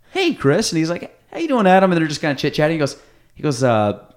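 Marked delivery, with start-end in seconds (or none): 0.1-0.7 much higher, cartoonish hello; high, playful imitation of a host greeting a guest; mock greeting. Sandler greets Chris Rock, retold. 1.3-1.9 higher and louder, hammed-up; mock reply. Chris Rock's reply, retold.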